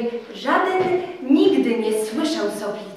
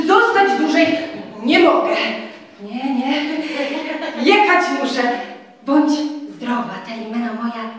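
put-on young man, firm then coaxing; Tadeusz refusing. Tadeusz refuses to marry Telimena, firm then soothing.

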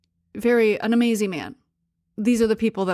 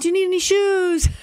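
high, louder salesman voice; imitating the shopkeeper; 9 semitones higher, 4 dB louder than usual. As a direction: pitch up and push it like an eager seller.

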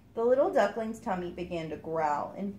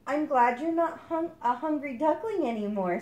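Mother Duck voice; 7 semitones higher, 4 dB louder than usual. Acted.

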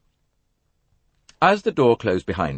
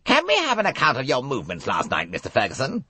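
cold questioning; 8 semitones higher, faster than usual. A narrator's reading. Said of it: "Race said coldly".

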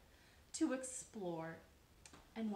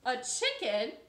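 high, loud doubtful question; can't believe it; baffled; 11 semitones higher, 9 dB louder than usual. Acted. Jessica doubting Marilyn, high and loud. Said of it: "And Jessica looked at it and said".

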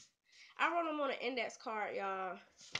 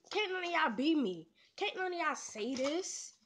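boastful; 4 semitones higher than usual. Real, not acted. Brags to viewers after success.

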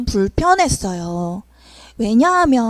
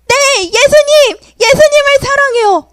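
tearful answer; 11 semitones higher, 6 dB louder than usual. Acted. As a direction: answer with heartfelt tears. Peter answers third time.

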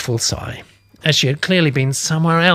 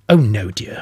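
reassuring; 5 semitones lower, 4 dB louder, slower than usual. Acted. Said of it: "I reassured her".

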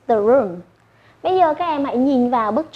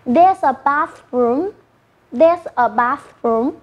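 slow model phrase; slower than usual. Shown as a demonstration. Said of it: "So how do you say?".

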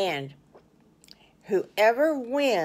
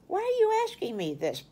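surprised question; 12 semitones higher, faster than usual. Acted. Mommy questions the boys.

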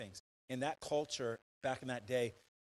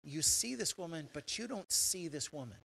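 earnest plea; 5 semitones higher than usual. Acted. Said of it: "he's saying".

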